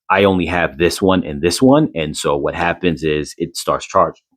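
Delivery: talking through hiccups. Real, not acted. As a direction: speak while fighting hiccups.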